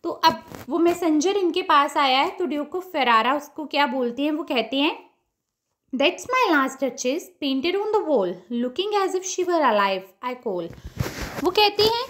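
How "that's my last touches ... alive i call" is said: measured verse reading, dropping at the close; poem recitation. Acted. Teacher reading Browning's poem to students, measured recitation. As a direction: read the lines out slowly.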